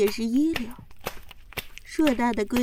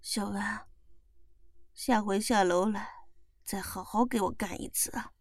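man's voice; 4 semitones lower, 7 dB quieter than usual. Acted. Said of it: "小王拍拍我的屁股".

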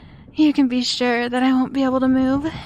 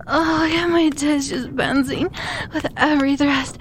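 moaning; 4 semitones higher than usual. Acted.

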